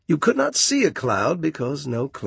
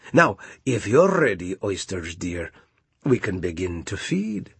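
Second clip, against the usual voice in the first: sly walrus; 2 semitones lower than usual. Acted. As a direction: savor the meal plan slyly. Walrus plans the meal.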